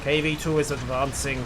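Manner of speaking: hammed-up Russian accent; playful mock Soviet commander voice; bad Russian accent. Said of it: "My Russian accent really needs work".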